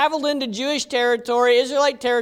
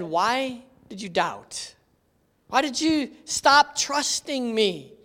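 soft, slow, tender question; Jesus softly asking Peter, tender; gentle rebuke; 4 dB quieter, slower than usual. Retold or imitated. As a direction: ask him gently, not scolding.

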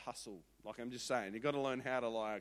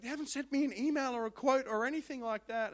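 1 worried; 9 semitones higher, 6 dB louder than usual. Retold or imitated. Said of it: "she's like".

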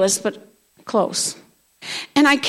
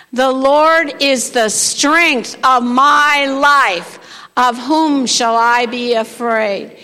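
slow congregational reading; 4 dB louder, much slower than usual. Shown as a demonstration. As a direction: read slowly with weight on each word. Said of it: "read the rest of it with me".

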